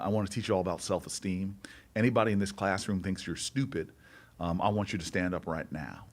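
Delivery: put-on light Southern accent for the teacher, quick; mild imitation of a Southern schoolteacher. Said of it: "best I can do, uh, an accent".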